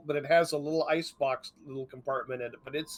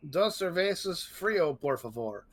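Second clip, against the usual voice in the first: mock Mexican accent; slower than usual. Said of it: "when I do a Mexican accent".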